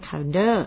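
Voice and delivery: calendar closing on "-der", not "-daa"; correct reading. Shown as a demonstration. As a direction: say calendar with a reduced last vowel. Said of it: "จริงๆอ่าน calendar". (อ่าน calendar ลงท้ายว่า เดอร์)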